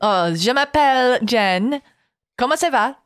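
put-on playful French accent. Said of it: "You were doing the French accent".

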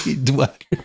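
amused, chuckling out the words; laughing. Real, not acted. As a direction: repeat the name through a laugh. Cracks up repeating silly name.

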